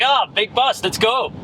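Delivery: breezy Dutch customs officer; Dutch accent. Retold or imitated. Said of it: "that was my Dutch accent".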